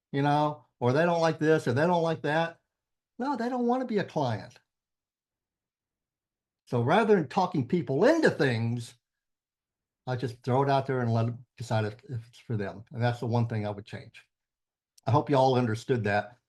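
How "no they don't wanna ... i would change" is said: talking with a numb tongue; half-numb mouth after dentist. Real, not acted. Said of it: "Half my tongue is numb".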